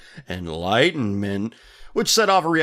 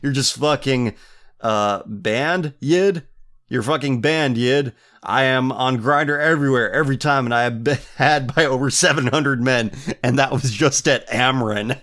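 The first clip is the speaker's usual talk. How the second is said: mock tirade, a touch louder than chat; mock rant; 3 dB louder than usual. Banning someone and boasting of extensive credentials, mock rant. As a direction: deliver it as an over-the-top boastful rant.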